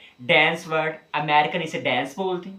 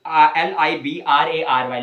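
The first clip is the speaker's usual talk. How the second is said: normal talking voice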